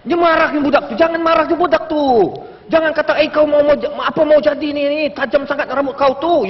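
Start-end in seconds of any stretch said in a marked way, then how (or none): 3.2-6.5 mild mock telling-off; mock scolding. Elder tells off youngster over spiky hair, mock indignation. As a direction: imitate an elder nagging a youngster. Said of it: "kita marah sama dia".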